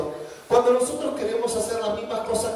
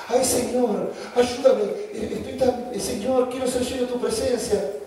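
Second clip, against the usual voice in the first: mock whiny prayer. Mocking immodest churchgoer praying.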